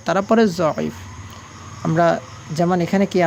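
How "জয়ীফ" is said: "জয়ীফ" with an opening z sound; Urdu dwad as z. Shown as a demonstration. Teacher quoting Urdu speakers' reading, "জয়ীফ" with z. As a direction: start "জয়ীফ" on zo, not do. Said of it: "তারা জয়ের মতো উচ্চারণ করে".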